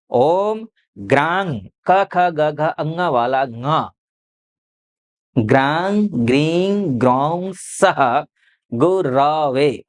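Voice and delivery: "ग्रांग" very slow, ending on the nasal ङ sound; careful pronunciation. Shown as a demonstration. Astrologer showing viewers the exact mantra sounds, very slow. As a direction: spell out "ग्रांग" slowly with the ङ nasal, then "गुरवे". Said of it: "ध्यान रखिएगा".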